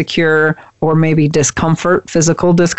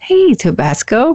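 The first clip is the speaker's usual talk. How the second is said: put-on sugary, sweet, high boy voice in pet-talk style; 7 semitones higher than usual. Showing how the speaker talks to the cat tabasco on the desk, sweet boy voice. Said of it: "I talk to him in a sweet boy voice".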